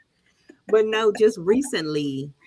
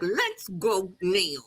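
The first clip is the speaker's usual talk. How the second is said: drawn-out command at half speed; slow firm order; 6 dB quieter, much slower than usual. Acted. Mother ordering her son off the field, slowly and firmly. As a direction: stretch each word, softer and insistent.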